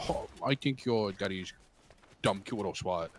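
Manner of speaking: dim, lazy dudebro voice; himbo voice. Shown as a demonstration. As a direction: play a dumb himbo. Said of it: "a himbo voice".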